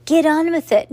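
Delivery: high, loud, impatient order; not very gently. A narrator's reading. Rude principal hurries the boy on, not very gently. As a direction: push him along like a rude principal. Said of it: "not very gently".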